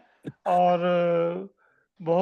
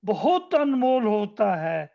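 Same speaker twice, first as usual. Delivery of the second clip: poem recitation. Acted.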